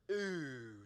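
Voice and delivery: drawn-out "ooh" of distaste; negative "ooh". Shown as a demonstration. Pastor showing the congregation how to react to something negative, displeased ooh. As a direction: demonstrate a long displeased "ooh". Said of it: "when you see something that's negative".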